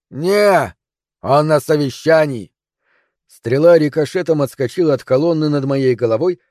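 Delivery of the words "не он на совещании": shouted refusal. Acted. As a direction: call down a blunt no. Defender calls answer down. (громкий отказ сверху)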